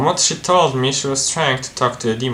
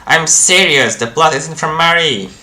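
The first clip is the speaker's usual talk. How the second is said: higher, louder, emphatic protest; insistent denial; 5 semitones higher, 5 dB louder than usual. Acted. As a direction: insist on it with rising force. Insists against accusation.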